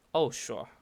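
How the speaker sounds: falling, insincere "Oh, sure"; sarcastic. Shown as a demonstration. Teacher demonstrating false agreement, sarcastic. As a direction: agree without meaning it. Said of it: "está siendo sarcástica la persona".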